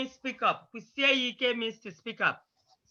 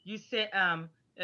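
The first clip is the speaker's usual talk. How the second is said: ordinary delivery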